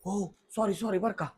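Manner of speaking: husband hushed after his wife says speak softly; hushed apology. Real, not acted. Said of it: "हळू बोला म्हणायला लागली Mrs".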